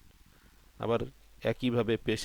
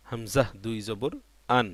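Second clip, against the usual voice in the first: spelling recitation. Shown as a demonstration. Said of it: "তাহলে আমরা পড়ি".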